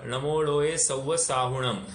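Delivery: सव्वसाहुणम with the syllable हु pressed and lengthened; stress on हु. Shown as a demonstration. Teacher showing students the stress on हु in सव्वसाहुणम. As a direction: lean into हु in सव्वसाहुणम, clearly weighted. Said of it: "हु के ऊपर ज्यादा, अ, अ, pronunciation होगा".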